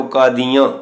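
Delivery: ਕਾਦੀਆਂ with a nasal aa at the end; nasalised final vowel. Shown as a demonstration. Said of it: "ਕੰਨੇ ਉੱਤੇ ਬਿੰਦੀ ਦਾ ਉਚਾਰਨ". (ਕਾਦੀਆਂ ਦਾ ਆਖਰੀ ਕੰਨਾ ਨਾਸਕੀ ਬੋਲੋ)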